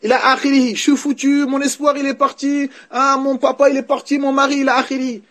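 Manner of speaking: hammed-up grieving wife, half laughing; mock wailing widow. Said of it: "La femme, elle est là à se, à se rouler par terre". (veuve qui se lamente, imitée en riant)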